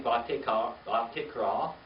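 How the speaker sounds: Bat Tikra drawn out slowly, syllable by syllable; slow model pronunciation. Shown as a demonstration. Teacher modelling Bat Tikra slowly after spelling it. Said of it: "B A T T I K R A".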